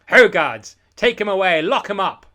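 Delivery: loud, high commanding yell; shouting orders. Acted. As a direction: call the guards to seize him. Calling guards to seize Eric.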